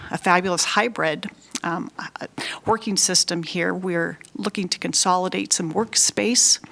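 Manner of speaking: slightly breathless speech; talking while short of breath. Real, not acted. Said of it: "I feel like I'm out of breath".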